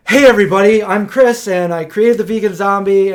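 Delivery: high, loud, eager hello to a crowd; bright stage greeting. Retold or imitated. Speaker on stage greets the crowd, loud and eager. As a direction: put on a big excited host opener.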